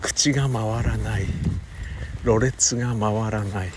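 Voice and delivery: stiff mouth from the cold; thick-tongued and slow; slurred, sluggish mouth. Real, not acted. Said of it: "うわー、滑舌悪い".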